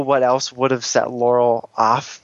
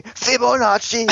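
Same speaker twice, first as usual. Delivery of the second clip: slow, higher, stretched-out calling of the name; mock villain cry; 9 semitones higher than usual. A fan mocking a villain's obsessive calling. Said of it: "he just kept saying".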